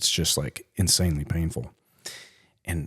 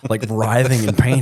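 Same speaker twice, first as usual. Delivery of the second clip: laughing through the words; 3 semitones higher, 7 dB louder than usual. Real, not acted. Laughing as he tells friends about the pain. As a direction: chuckle while telling it. Laughing while telling injury.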